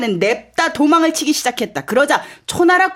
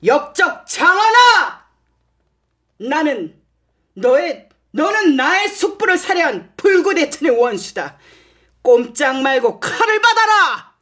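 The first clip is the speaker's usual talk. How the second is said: warrior's challenge; 2 semitones higher than usual. Acted. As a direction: challenge your sworn enemy. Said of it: "이야기한다".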